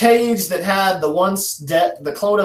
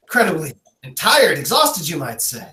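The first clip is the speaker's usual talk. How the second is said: lightly voiced hillbilly haggler; a hint of hillbilly auctioneer patter; fast-talking hillbilly. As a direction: rattle it off like a backwoods auctioneer. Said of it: "'cause he's a hillbilly who says it really fast".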